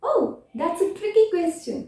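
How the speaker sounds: "Oh" lifted high then falling, slow; thoughtful demo opener. Shown as a demonstration. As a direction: stretch out "Oh, that's a tricky question" like pondering. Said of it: "आप start कर सकते हो". ("Oh" को ऊँचा खींचकर धीरे बोलें)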